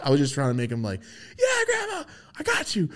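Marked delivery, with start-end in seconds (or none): 1.4-2.9 mock reassuring. Reassuring grandma.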